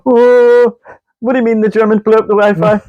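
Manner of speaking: high, outraged disbelief; incredulous. Acted. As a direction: act shocked the Wi-Fi is gone. Mock panicked person without Wi-Fi.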